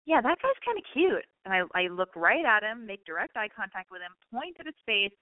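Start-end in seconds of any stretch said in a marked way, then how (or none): 0.0-1.3 mock flirty aside. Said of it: "So I pointed him and I go".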